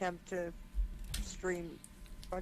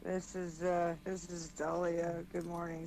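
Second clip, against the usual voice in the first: sleepy voice; 2 semitones lower than usual. Real, not acted. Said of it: "sleepy voice right here".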